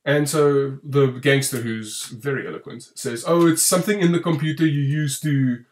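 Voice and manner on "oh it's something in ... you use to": put-on South African accent. Film fan quoting the gangster's explanation, mock South African accent. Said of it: "that's my South African accent as a South African".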